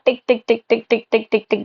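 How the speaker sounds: quick, even clock ticks; ticking imitation. Shown as a demonstration. Teacher showing students the second hand moving, ticking imitation. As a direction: tick softly like a second hand.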